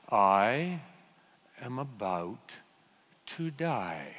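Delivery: hushed, resigned, almost amused; calm mock resignation. Driver spinning in circles thinking calmly, soft and hushed.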